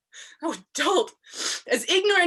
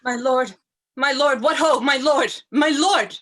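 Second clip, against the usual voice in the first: calling out; 6 dB louder than usual. Acted. Emilia calling at the door.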